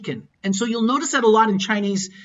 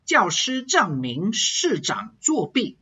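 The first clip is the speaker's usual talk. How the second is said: 教师证明市长作弊 said slowly, each fourth tone dropping firmly; forceful falling tones; slower than usual. Shown as a demonstration. Teacher demonstrating tones to learners, forceful falls on 教师证明市长作弊. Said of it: "fourth tone has to come down forcefully".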